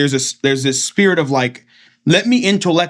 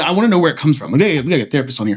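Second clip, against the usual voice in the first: ordinary delivery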